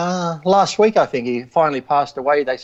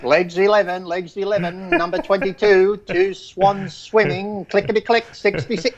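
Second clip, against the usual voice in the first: lightly voiced bingo caller, higher; sing-song number calls, higher; 5 semitones higher than usual.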